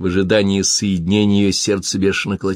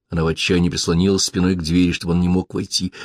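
usual speaking voice

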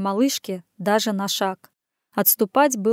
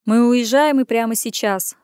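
commanding; 4 dB louder than usual. Acted. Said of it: "скомандовал он".

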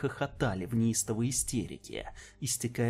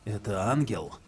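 skeptical; 2 semitones lower than usual. Acted. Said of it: "скептически произнёс Галтей".

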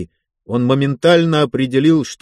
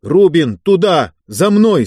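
loud high battlefield command; commanding shout; 6 semitones higher, 5 dB louder than usual. Acted. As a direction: bark the order. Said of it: "скомандовал Кузнецов".

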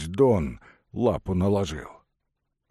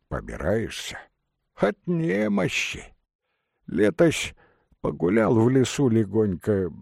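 put-on old beggar voice; 4 semitones higher than usual. Old beggar ataman answers.

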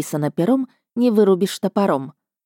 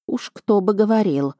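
ordinary delivery, nothing marked

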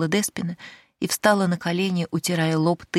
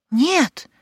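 high, loud shouted no; sharp denial; 10 semitones higher, 5 dB louder than usual. Acted. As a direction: cut her off fast. Servant denies sharply.

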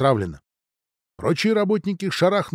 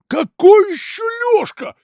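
much higher, louder astonished cry; exclaiming; 7 dB louder than usual. Acted. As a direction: burst out in disbelief. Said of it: "воскликнул Дудин".

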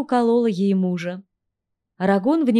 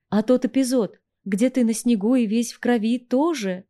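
sneering question, a little higher; sarcastic dig at him; snide; 3 semitones higher than usual. Acted. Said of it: "ехидно поинтересовалась я".

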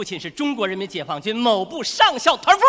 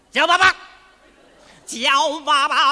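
叫爸爸 shouted higher and louder, then dragged out slowly; bully the child into it, louder and slower; 叫爸爸 barked as a threat, stretched out at the end; scary demand; 3 semitones higher, 7 dB louder, slower than usual. Acted. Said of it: "你得把孩子再吓着他。".

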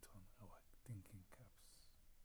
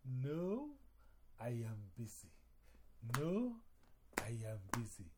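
loud repeated refusal as Anansi; busy spider; 9 dB louder than usual. Acted. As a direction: snap it out twice like a cranky spider. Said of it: "Anansi says".

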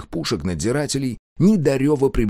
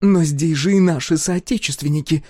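high, loud pleading cry; exclaiming; 8 semitones higher, 4 dB louder than usual. A narrator's reading. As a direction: cry out in alarm. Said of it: "воскликнула Адриана".

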